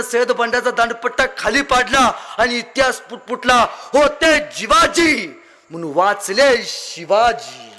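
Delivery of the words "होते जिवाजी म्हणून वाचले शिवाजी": solemn slow proverb; slow solemn saying. Acted. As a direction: intone the proverb word by word, slowly. Famous saying, slowly intoned.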